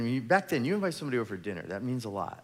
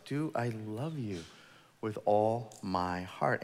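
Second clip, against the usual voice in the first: mild slow self-questioning; slower than usual. Acted. Pastor asking God himself.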